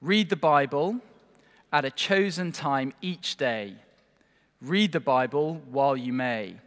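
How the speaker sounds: measured, sing-song rhyme recitation; recited ditty. Shown as a demonstration. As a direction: read the little verse slowly, line by line. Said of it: "There's a little ditty that goes like this".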